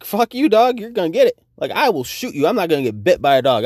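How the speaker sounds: high, loud threat at the dog; threatening yell. Retold or imitated. Threatening the attacking pit bull.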